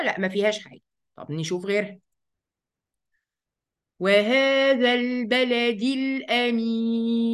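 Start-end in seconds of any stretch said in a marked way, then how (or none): 4.0-7.3 والتين والزيتون drawn out slowly, chanted; slow recitation. Acted. Recites verse.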